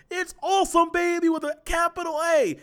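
over-the-top sportscaster catchphrase, full throttle; Dick Vitale impression. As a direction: hype it up like a courtside college basketball announcer. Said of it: "My, my voice nowhere near as good as his".

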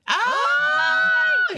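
sudden high loud yelp of surprise; startled cry. Real, not acted. Teased about a mole, she yelps in surprise. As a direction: caught off guard, blurt it out sharp and high.

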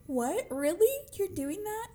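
high-pitched, delighted disbelief; retold surprise. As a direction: rise up in happy astonishment at a friend's kindness. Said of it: "And I was like".

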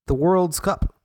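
lightly fancy, measured pronouncement; mock-fancy announcement; said fancily. Shown as a demonstration. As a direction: give the title a touch of grandeur. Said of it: "I say it fancily".

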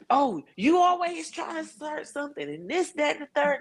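high whiny mock of his nagging; lightly voiced complaining boyfriend; a hint of mocking, high-pitched nag; mocking the partner.

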